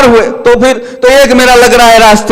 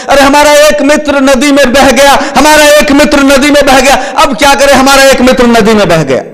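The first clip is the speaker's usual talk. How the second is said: mock wailing lament; 4 semitones higher than usual. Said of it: "फूट फूट कर रोने लगे".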